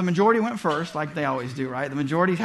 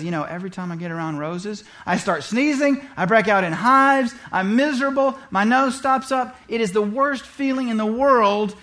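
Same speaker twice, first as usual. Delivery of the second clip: complaining wife; 2 semitones higher than usual. Retold or imitated. Wife complaining about roses.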